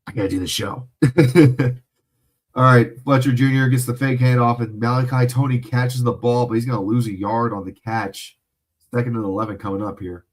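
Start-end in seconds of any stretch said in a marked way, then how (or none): 2.5-10.3 louder, quicker broadcast call of the play. Acted. Streamer calling the Miami drive for viewers, louder play-by-play. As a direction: call the run like a game announcer.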